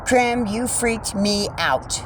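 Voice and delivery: slow, gentler telling-off after the scare; real relief after a scare; calmer repeat. Real, not acted. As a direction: let the fright drain, slowly.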